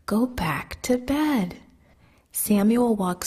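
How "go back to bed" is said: sleepy whispered order. A narrator's reading. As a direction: whisper it, slow and drowsy. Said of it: "he whispered".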